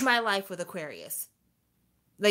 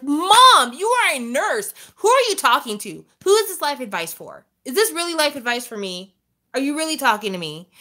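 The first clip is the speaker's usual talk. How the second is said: louder, higher incredulous retort; exasperated outburst; 4 semitones higher, 5 dB louder than usual. Retold or imitated. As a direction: push back at mom in disbelief. Exasperated reply to mom.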